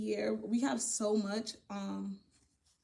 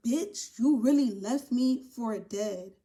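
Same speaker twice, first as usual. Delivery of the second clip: indignant accusation; 6 dB louder, much slower than usual. Acted. Indignant outburst at ex.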